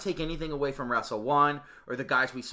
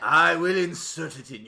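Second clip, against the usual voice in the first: shady salesman voice; 3 semitones higher, 6 dB louder than usual. Pretend. Mock drug dealer bit.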